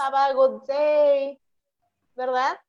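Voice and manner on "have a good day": slow model phrase. Shown as a demonstration. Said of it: "normalmente también decimos".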